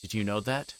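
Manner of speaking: plain reading voice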